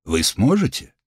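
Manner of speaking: steady physician giving a diagnosis; calm healer. Acted. Healer asks.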